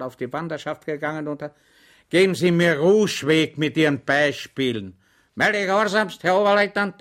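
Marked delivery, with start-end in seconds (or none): 2.1-4.9 louder, exasperated lieutenant; lieutenant silencing his chattering batman, irritated; irritated officer. Acted. The lieutenant cuts Schweig off. 5.3-7.0 higher, louder eager reporting. Acted. Schweig eagerly insists.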